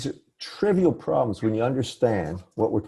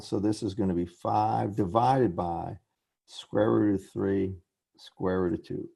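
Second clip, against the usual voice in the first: measured, slower explanation with pauses; slowed down. Real, not acted. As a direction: take it slowly, step by step. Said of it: "I'll slow down".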